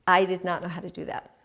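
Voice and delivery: breathless whispered confession; whispered regret; real whisper. Real, not acted. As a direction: whisper the admission. Confessing her past failure.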